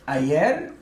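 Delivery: ayer said slowly in Spanish, ah-YEHR; Spanish word ayer. Shown as a demonstration. Teacher modelling ayer for the class. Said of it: "means yesterday".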